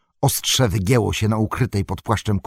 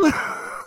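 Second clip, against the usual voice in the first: breathy mocking cackle; scornful cackle. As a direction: cackle with contempt. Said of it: "zaskrzeczał".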